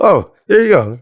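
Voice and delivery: high, laughing, playful release; laughing stage quip. Retold or imitated. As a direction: toss it off with a giggle after the swear. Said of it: "then I would say".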